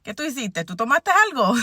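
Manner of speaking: lightly voiced scolding grandma; a hint of a bossy grandmother in Spanish. Granddaughter imitating her grandma scolding her, lightly voiced. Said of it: "I could hear my grandma in my head saying".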